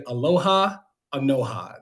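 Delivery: Anoha said to rhyme with Aloha; name pronunciation demo. Shown as a demonstration. Candidate teaching the audience to say Anoha, pronunciation demo. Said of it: "if you can't pronounce my last name".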